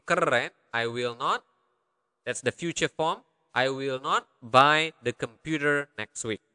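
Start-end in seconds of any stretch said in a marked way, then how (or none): 3.5-6.4 phrase by phrase, with small gaps; careful, measured. Shown as a demonstration. Teacher breaking down a translation for learners, careful and measured. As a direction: spell out the sentence unhurriedly for learners.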